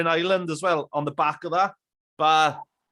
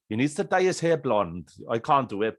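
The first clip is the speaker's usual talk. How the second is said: lightly imitated North Walian accent; retold quote with a touch of North Walian; 4 semitones lower than usual. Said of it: "In his North Walian accent".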